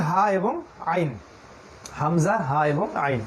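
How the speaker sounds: slow, careful Arabic letter names হামজা, হা এবং আইন; slow letter demo. Shown as a demonstration. Teacher showing students the Arabic letters, slow and careful. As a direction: spell out হা and আইন slowly from the throat. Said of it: "তারপর আছে হামজা".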